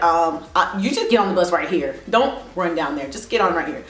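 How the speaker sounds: lightly voiced bus driver. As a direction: drop the pitch a little for the driver. Bus driver's words retold.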